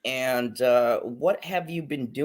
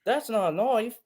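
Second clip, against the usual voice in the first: Paul Hogan voice; 9 semitones higher, faster than usual. Retold or imitated. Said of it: "he's like".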